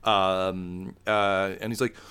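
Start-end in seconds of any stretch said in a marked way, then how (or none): none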